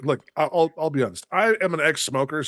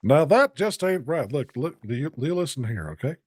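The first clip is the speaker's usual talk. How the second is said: Hank Hill. Retold or imitated. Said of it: "Hank Hill impression".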